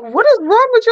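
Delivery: high, incredulous mock question; baffled friends. Friends ask why she is reacting, mock incredulous.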